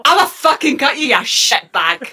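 Scottish threat. Acted. Scot demonstrates the threat in brogue.

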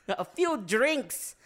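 high, slow drunken impression; slow helium-pitched drunk; hammered. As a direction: stretch it out tipsily. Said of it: "That was just you hammered".

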